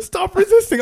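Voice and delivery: high, loud police command; retold arresting officer's shout; cop shouting orders. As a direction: yell it mid-struggle.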